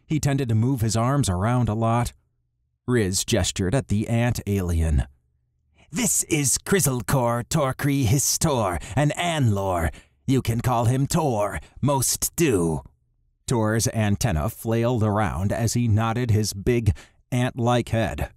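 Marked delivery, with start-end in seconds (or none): 5.9-12.8 lightly raised voice for the leader; Riz's voice. Acted. Riz, a character voice.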